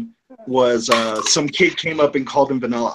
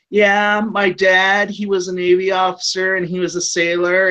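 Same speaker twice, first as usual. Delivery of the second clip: higher-pitched woman rambling on; rambling fan; 6 semitones higher than usual. Retold or imitated. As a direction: imitate a chatty audience member droning on. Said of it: "this one chick's like".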